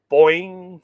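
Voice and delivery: springy sound effect; bow and arrow twang. Shown as a demonstration. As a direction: imitate a bowstring being released. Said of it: "for the bow and arrow".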